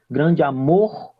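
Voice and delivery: "Grande amor" slowed down, "mor" carrying the peak; teacher's slow stress demonstration. Shown as a demonstration. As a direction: lean slowly into the last syllable of "amor". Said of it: "temos a maior força... na sílaba mor".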